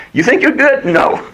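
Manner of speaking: high incredulous question, then firm denial; mocking challenge. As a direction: challenge their pride, then knock it down. Voices God challenging human pride.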